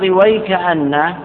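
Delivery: slow, drawn-out recitation of وي كأن; recited slowly. Shown as a demonstration. Teacher reciting the word for students, slow and drawn out. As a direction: chant it slowly like reciting Quran.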